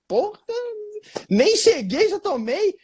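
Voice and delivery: mildly indignant retelling; mock dismay. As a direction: play up being taken aback.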